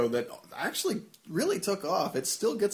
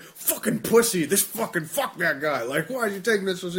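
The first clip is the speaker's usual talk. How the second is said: raised-voice imitation of angry commenters; angry mockery; 6 semitones higher, 4 dB louder than usual. Imitating forum posters upset at him, angry. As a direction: spit out mock outrage, higher and louder. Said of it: "like, really angry".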